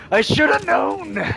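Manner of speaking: slow, drawn-out self-pity; dragged out. Retold or imitated. Repeating the thought slowly, drawn out in mock despair. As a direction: stretch every word, defeated.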